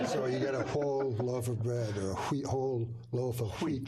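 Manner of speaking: whole and wheat said with a breathy hw at the start; breathy wh sounds. Shown as a demonstration. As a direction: blow a little air before the w in wheat. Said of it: "I learned that W H pronounce".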